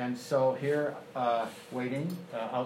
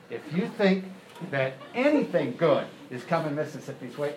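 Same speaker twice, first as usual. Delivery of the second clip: menacing threat. Retold or imitated. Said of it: "as he stands up".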